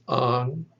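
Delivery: ang sounded out on its own; isolated syllable. Shown as a demonstration. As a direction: say ang as a separate first syllable. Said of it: "there are three syllables".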